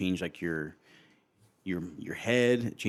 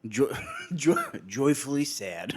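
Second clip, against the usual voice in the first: squeaky bickering rat chorus; 6 semitones higher, slower than usual. Pretend. Silly voices bit.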